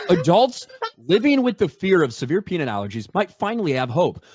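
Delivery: reading an article aloud, fairly quick and even; news read. Acted. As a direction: read the report like a newscaster.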